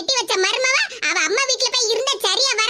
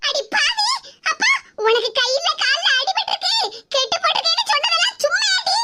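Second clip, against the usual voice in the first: high, startled cry of outrage with laughter; shocked outcry; 4 semitones higher than usual. Acted. Mother-in-law catching out her scheming daughter-in-law, shocked outcry.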